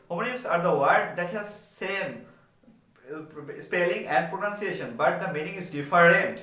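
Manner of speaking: very slow, each word spaced out for students; slow dictation. Shown as a demonstration. Teacher reading the English definition to students, very slow and deliberate. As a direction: read the definition slowly, as if dictating.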